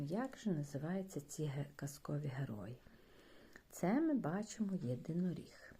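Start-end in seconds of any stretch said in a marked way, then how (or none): 0.0-2.8 soft whisper. Real, not acted. Teacher whispers to children.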